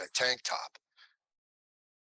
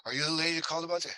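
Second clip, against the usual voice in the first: nervous take; 6 semitones higher, much faster than usual. Retold or imitated. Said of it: "I'm, like, freaking out".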